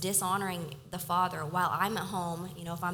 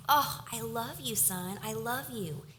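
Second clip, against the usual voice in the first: loving father; 4 semitones higher than usual. Retold or imitated. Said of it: "the father is like".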